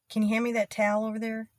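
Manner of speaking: "towel" squeezed into one syllable, tal; Southern one-beat "towel"; Texan towel. Shown as a demonstration. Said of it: "Not towel".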